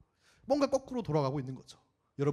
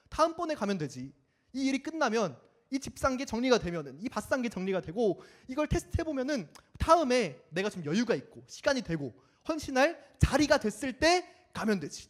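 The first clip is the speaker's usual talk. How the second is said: higher, breezy putting-off; careless excuse; 5 semitones higher than usual. Acted. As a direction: wave it off lightly for later. Careless excuse-maker voiced. (느긋하게 미루는 말투)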